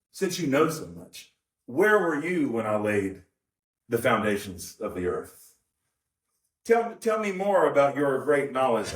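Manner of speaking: lightly voiced jovial ribbing; playful teasing. Shown as a demonstration. Voicing God as a friend ribbing Job, playful. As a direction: tease him like an old friend. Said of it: "There's a playfulness to this".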